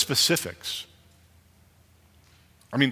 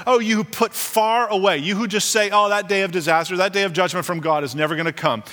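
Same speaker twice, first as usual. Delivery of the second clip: emphatic preaching; 2 semitones higher than usual. Acted. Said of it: "preacher paraphrasing Amos".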